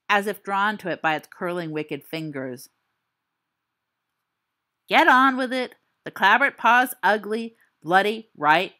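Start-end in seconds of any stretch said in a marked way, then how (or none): 4.9-8.7 loud, pushy hurry-up; impatient heckle. Real, not acted. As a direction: cut in to rush the teller. Listener heckles impatient storyteller.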